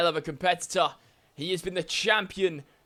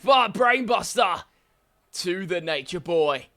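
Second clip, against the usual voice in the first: excited shout; 4 dB louder than usual. Real, not acted. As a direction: shout the counter move as it lands. Wrestling play-by-play, sudden counter move.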